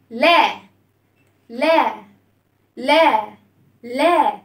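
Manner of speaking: لا as an open, drawn-out "laa"; open vowel. Shown as a demonstration. Teacher shows children lam with fatha, open-voweled لا. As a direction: open the mouth on لا, sounding "laa". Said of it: "هنفتح الصوت".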